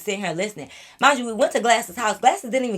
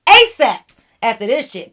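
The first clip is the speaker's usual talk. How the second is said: angry yell at guy; 10 dB louder, much slower than usual. Retold or imitated. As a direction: yell him off, slow start then explode. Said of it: "I said".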